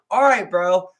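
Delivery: mock-excited bro greeting. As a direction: hype up your buddy.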